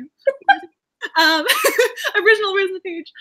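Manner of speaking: real teary catch in the voice; choked up. Real, not acted. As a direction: laugh breaking into tearful words. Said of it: "gonna make me cry".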